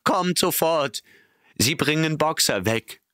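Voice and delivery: high, urgent warning; alarmed. A narrator's reading. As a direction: urge them to come at once. Benjamin in alarm. (hoch und drängend)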